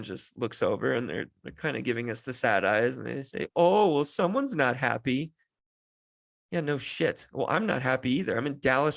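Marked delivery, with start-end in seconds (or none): 3.6-5.3 lightly imitated nosy stranger cooing; a hint of singsong pity; mock sympathy. Stranger in food line eyes screaming child, mock-sympathetic.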